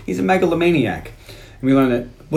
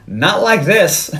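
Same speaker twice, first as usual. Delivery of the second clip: drawn out; 4 semitones higher, much slower than usual. Retold or imitated. Retold movie line, drawn out.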